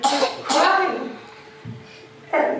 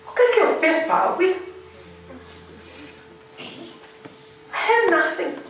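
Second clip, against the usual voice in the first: imitating husband on the phone. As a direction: play the husband pouring his heart out, pitched up. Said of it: "The second phone call went like this".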